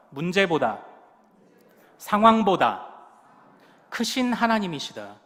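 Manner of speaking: loud, emphatic lead-in phrases; call for repetition. Real, not acted. Preacher leading the congregation in repeating after him, emphatic call. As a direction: call each phrase out for others to echo.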